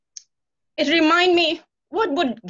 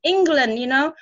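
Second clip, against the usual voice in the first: excited self-talk; 3 semitones higher than usual. Retold or imitated. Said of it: "tell myself".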